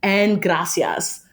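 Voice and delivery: put-on slow Spanish sign-off in a gringa accent. Podcast guest closes the mangled Spanish quote, gringa accent. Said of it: "said it in the accent".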